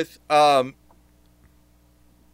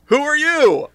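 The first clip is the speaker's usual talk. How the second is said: Dungeon Master; 9 semitones higher, 3 dB louder than usual. Pretend. DM voice challenges the newcomer.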